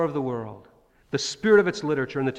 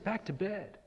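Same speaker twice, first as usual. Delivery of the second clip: sleepy dismissal; 5 semitones higher, 10 dB quieter than usual. Retold or imitated. Priest sends boy back.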